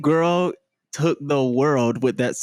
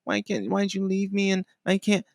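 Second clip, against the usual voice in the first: mock sad breakup whine; 4 semitones higher than usual. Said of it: "everyone's so used to".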